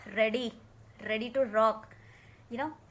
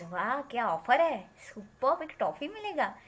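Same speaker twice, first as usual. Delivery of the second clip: amazed. Acted.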